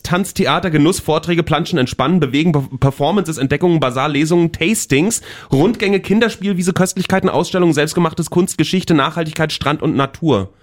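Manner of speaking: breathless-sounding reel of festival attractions; stressed-out list reading. Real, not acted. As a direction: rattle off the list, item after item. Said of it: "Klingt eher nach Stress".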